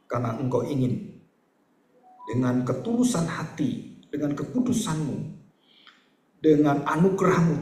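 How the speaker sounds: measured prayer with long pauses; doa penutup. Real, not acted. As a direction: lead the congregation in earnest prayer. Leads closing prayer. (doa khidmat dengan jeda panjang)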